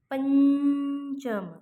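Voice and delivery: पंचम drawn out very slowly, syllable by syllable; slow demo pronunciation. Shown as a demonstration. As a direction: stretch पंचम slowly so the न sound of the anusvara is heard. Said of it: "हा पंचम हा शब्द". (पंचम सावकाश, अनुस्वाराचा उच्चार स्पष्ट करत)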